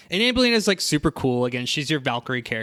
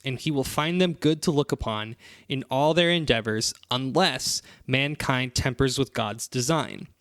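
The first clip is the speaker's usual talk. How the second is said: scripture reading. Shown as a demonstration. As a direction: read it like holy scripture. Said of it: "I'm gonna read you the passage".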